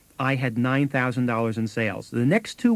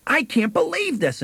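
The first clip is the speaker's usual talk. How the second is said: mock outrage; 8 semitones higher than usual. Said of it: "she starts yelling and screaming".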